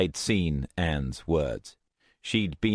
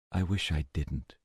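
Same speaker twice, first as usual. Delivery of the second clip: wretched; 4 dB quieter than usual. Acted. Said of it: "Anne sounded dull and weary and utterly wretched".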